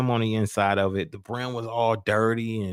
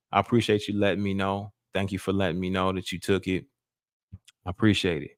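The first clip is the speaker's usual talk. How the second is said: gentle forgiving dad; 2 semitones lower than usual. Retold or imitated. Father forgiving son gently.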